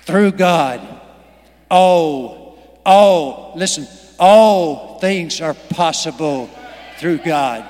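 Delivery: rising to a preaching shout. Real, not acted. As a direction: shout it out to the congregation. Preacher building to shouted climax.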